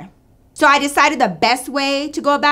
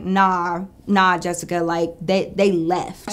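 gentle bad news; 6 semitones lower, slower than usual. Gently breaking bad news to Jessica.

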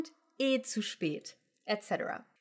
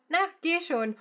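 sweet coaxing; 6 semitones higher than usual. Shown as a demonstration. Teacher shows a sweet nudge to go. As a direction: coax them sweetly to go. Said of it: "said in a sweet tone".

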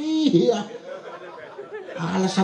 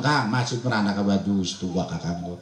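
wife's voice; 10 semitones lower than usual. Retold or imitated. Wife voiced in story.

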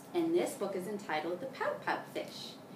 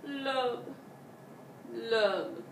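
a lightly voiced gloomy fish chanting its refrain; glum pout fish; 4 semitones higher, slower than usual. Pout fish moans his gloomy refrain. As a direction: mope through the refrain.

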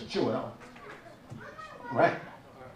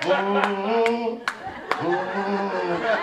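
humming while cooking; much slower than usual. Retold or imitated. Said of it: "They be like".

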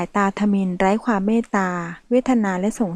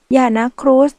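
high, louder desperate plea; 4 semitones higher, 6 dB louder than usual. Acted. Michelle begging the mafia man not to shoot. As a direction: beg him to stop. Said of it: "มิเชลเค้นเสียงช่วยเหลือตัวเอง".

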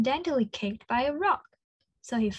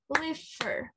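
liver in two claps; 3 semitones higher, 5 dB quieter than usual. Shown as a demonstration. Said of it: "clap your hands to make two beats".

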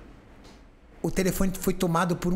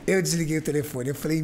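usual speaking voice

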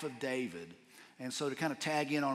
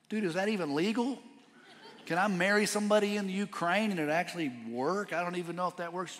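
incredulous; 4 semitones higher, 4 dB louder than usual. Retold or imitated. Retold shock at wedding request.

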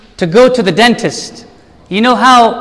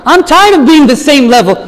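higher and louder, with fervent resolve; eager declaration; 3 semitones higher, 4 dB louder than usual. Retold or imitated. Congregation member resolving to grow, fervent and loud. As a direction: declare it like a hungry believer. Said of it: "You and I today should say".

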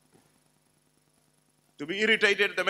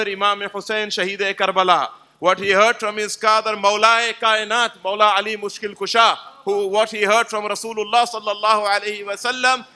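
reverent chain recital. Retold or imitated. Imam recites his lineage to the gathering, building in force. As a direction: recite each link with rising reverence.

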